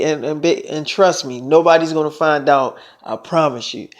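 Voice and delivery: soft reassurance. Retold or imitated. Lover promises Selena nobody will find out, soft reassurance. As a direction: reassure a partner quietly.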